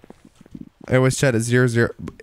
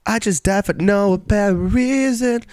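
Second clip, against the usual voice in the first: indignant surprise; 9 semitones higher, slower than usual. Real, not acted. Sudden in-game death.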